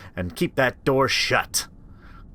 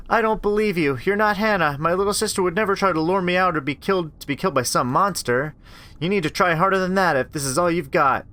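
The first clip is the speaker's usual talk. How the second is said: higher, firm and scornful; defiant; 7 semitones higher than usual. Acted. Rachel refusing the imposter at the door, defiant. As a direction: stand up to the thing at the door.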